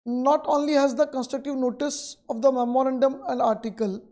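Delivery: reads the textbook line out very slowly, word by word; slow dictation. Acted. Teacher dictating the textbook definition to students, very slow. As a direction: dictate it so students can write.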